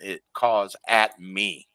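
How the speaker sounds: "at me" drawn out slowly and pressed; slow right down and lean on "at me"; stress on "at me". Real, not acted. Explaining how the raven singled them out, stress on "at me".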